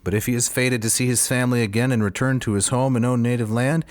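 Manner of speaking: lightly voiced giant's curse; a hint of a brooding giant praying; Cyclops voice. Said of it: "in my Cyclops voice".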